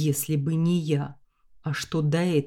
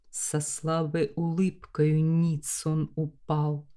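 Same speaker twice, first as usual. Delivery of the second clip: rhythmic ballad reading; poem recitation. A narrator's reading. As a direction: recite the verse with cadence.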